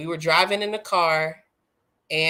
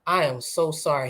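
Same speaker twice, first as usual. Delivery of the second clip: softly retold, heartfelt apology; retold tearful apology; 4 semitones lower, 3 dB quieter than usual. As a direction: quietly re-enact saying sorry through tears, understated. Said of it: "I just started bawling".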